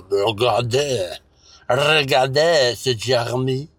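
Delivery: mock French, slow and rubbery; French accent. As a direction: drawl it like a fake Frenchman. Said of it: "You sound like your mouth is full of rubber".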